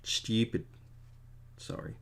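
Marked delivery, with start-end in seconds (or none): 0.0-0.7 stupid with a y-glide, STYOO-pid; posh pronunciation. Shown as a demonstration. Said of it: "posh, stupid way".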